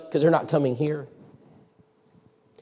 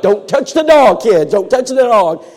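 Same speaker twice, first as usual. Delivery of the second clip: warning shout; 6 semitones higher, 7 dB louder than usual. Retold or imitated. Father warning kids loudly.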